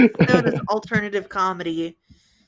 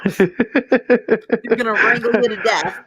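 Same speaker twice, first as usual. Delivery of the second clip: Tex-Mex; 2 semitones higher, 4 dB louder, faster than usual. Acted. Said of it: "it sounds like Tex-Mex".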